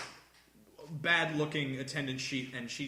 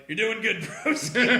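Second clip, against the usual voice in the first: put-on higher, louder kid voice; mock kids' cheer; 5 semitones higher, 6 dB louder than usual. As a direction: encourage the teacher like a child. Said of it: "they're like".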